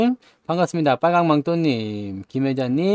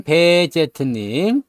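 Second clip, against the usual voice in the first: ordinary talk, nothing marked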